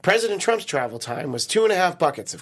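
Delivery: comic news anchor delivery; mock newscast read. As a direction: read it out like a headline with a punchline. Reads joke news headlines.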